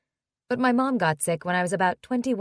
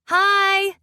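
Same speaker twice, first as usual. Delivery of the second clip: bright high excited greeting; loud delighted hello; cheerful hi; 12 semitones higher, 8 dB louder than usual. Acted. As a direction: call out happily expecting him.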